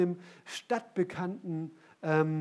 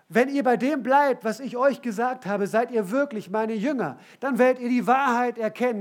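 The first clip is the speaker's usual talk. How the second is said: loud, raised preaching voice; emphatic proclamation; 6 semitones higher, 8 dB louder than usual. Acted. Preacher quotes Jesus to his disciples, loud and emphatic. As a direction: declare it forcefully, driving each phrase home.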